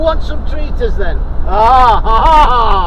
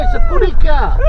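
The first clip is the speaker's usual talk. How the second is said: much higher, louder sing-song; 12 semitones higher, 4 dB louder, faster than usual. Real, not acted. Owner teasing the dog about a cat, high baby talk. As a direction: squeak it out to excite the dog.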